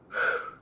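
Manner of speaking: breathy whew, blown out; relieved exhale. Retold or imitated. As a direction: let out a big puff of air. Reenacting a relieved look back.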